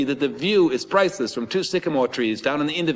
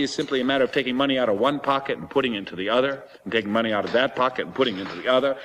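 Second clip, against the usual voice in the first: imitating the seller; 2 semitones lower than usual. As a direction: put on the seller's voice, insulted and lecturing. Seller haggling over price.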